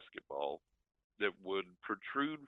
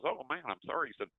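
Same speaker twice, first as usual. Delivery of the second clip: high, surprised friend voice; buddy's voice; 12 semitones higher than usual. Retold or imitated. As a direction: play the startled buddy, pitched up.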